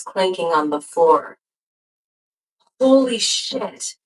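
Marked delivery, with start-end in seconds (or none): 2.8-4.0 high, drawn-out gasp of astonishment. A narrator's reading. Awed friend stepping out into the palace, gasping. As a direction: gasp it slowly, pitched well up. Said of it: "I gasp".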